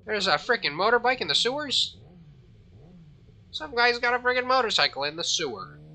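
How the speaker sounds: can't believe what you're seeing, loud and high; incredulous. Real, not acted. Incredulous at motorbike in sewer.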